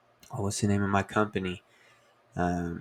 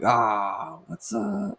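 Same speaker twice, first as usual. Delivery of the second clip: mock casual greeting; 9 semitones higher, much slower than usual. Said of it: "And he's like".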